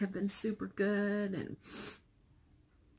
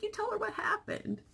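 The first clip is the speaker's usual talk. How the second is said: high, breathy whispered quote; lightly voiced whispered reply; mock high whisper. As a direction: whisper it up high as a retold aside. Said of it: "I was like".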